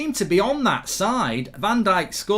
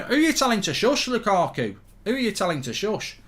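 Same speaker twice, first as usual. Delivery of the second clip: mock indignation; 3 semitones higher than usual. Mock challenging Lukaku.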